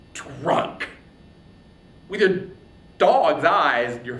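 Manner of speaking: loud, scornful, spitting words; contemptuous insult. Acted. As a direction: Achilles rounding on Agamemnon in rage. Achilles insults Agamemnon.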